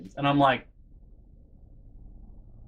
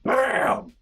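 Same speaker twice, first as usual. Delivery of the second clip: higher, punchy "Bam!" impact noise; mock slam sound; 10 semitones higher, 3 dB louder than usual. Acting out slamming a kid into a locker, punchy bam. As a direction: smack the word like a locker hit.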